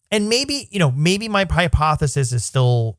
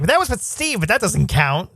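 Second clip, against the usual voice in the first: lightly voiced ditzy girl; 4 semitones higher than usual. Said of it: "she was like".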